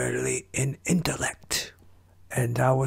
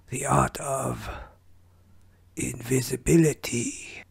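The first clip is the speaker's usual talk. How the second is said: put-on whispery old ninja master; Splinter voice. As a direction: wise rat sensei, hushed and grave. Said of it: "So I wanted to try Splinter out".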